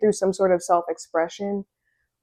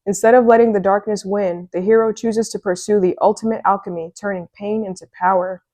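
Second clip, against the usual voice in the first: lightly dramatic oracle-card read. Acted. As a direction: read it like an affirmation. Continues reading the card text.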